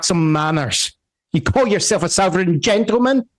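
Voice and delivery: high Southern scolding; old Southern woman. Acted. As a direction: dress him down like a Southern mama. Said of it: "And she goes".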